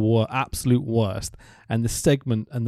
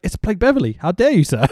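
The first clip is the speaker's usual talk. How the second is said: mock-indignant outburst, higher pitched; mock fury; 5 semitones higher, faster than usual. Fan scolding commentators over the Mauler's introduction, mock furious. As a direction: play up the outrage. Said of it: "I get fucking furious".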